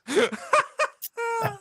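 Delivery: high helpless laugh. Real, not acted. Laughing at own story.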